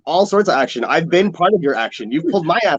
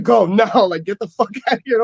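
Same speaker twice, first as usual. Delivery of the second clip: urgent order; 4 semitones higher than usual. Retold or imitated. Joey urgently orders him out.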